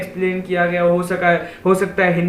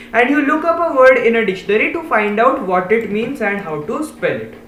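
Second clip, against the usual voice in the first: reading the English line slowly, word by word; slow read-aloud; much slower than usual. Shown as a demonstration. Teacher slowly reading the textbook line to the class. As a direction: read it out slowly for young pupils.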